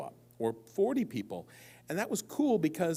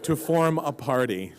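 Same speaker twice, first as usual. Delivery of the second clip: personals ad; 5 dB louder than usual. Retold or imitated. Man finishing his personals ad for a crowd, louder announcement. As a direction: read out like an ad's punchline, louder. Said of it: "here's my personals ad".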